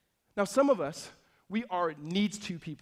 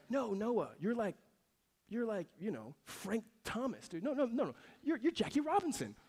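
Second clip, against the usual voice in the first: mock praise; 4 semitones higher, 6 dB quieter than usual. Mock overpraise of his son.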